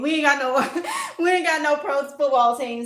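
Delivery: real laugh breaking into the words. Real, not acted. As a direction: laugh through the admission. Laughs at having no team.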